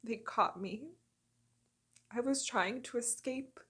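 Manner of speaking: very soft, near-whispered dramatic monologue with long pauses; hushed, grave confession. Acted. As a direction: confide the horrors under your breath, haltingly. Acted dark monologue of a captive.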